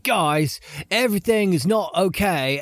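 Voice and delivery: a faint, bad British accent; barely British, badly faked; terrible British accent. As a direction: attempt a British accent and miss. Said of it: "And that's a British accent".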